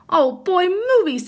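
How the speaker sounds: high, loud eager cheer; thrilled to see a movie; excited cubs. Acted. Cubs cheering at the projector screen, excited.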